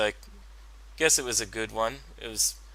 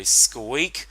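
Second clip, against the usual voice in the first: mock squeak call; 5 dB louder than usual. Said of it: "I'll go".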